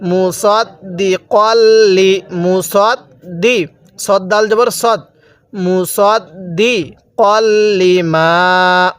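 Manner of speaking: মুসাদ্দিকাল্লি broken up and chanted slowly; slow tajweed spelling; slow spelling recitation. Shown as a demonstration. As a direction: sound out মুসাদ্দিকাল্লি letter by letter. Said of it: "এরপরে".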